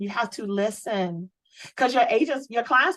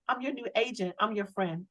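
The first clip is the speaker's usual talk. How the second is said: softer, reassuring agent voice; friendly pitch; 6 dB quieter than usual. Acted. Agent reassuring client Mike he has a friend, soft and warm. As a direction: ease into it like a trusted friend.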